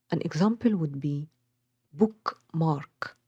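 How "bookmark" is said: "bookmark" as two equal beats; BOOK, MARK, separately stressed; both syllables stressed. Shown as a demonstration. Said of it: "both syllables are stressed".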